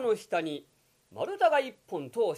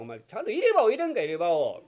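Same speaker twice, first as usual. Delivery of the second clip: irritated scolding; 5 dB louder, faster than usual. Acted. Kokichi scolds mother.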